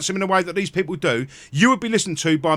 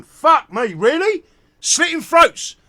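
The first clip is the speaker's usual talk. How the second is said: higher, incredulous anger; aghast at the throat-cutting; disbelieving outrage; 9 semitones higher, 3 dB louder, much slower than usual. Real, not acted. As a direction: spit it out in shock. Reacting to news of killings.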